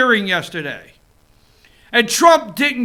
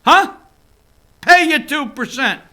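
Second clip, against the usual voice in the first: imitating Trump; 2 semitones higher than usual. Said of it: "Donald said to Trudeau".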